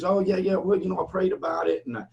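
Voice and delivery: the debtor stalls on the phone, imitated excuse-making. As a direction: wriggle out of paying, lightly imitated. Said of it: "And the guy goes".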